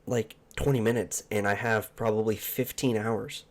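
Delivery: talking through hiccups; hiccupping mid-sentence. Real, not acted. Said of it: "Sorry, I got the hiccups".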